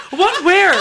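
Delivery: quoting through laughter; laughing while mimicking him; laughing imitation. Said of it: "He did, like".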